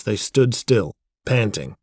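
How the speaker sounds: usual speaking voice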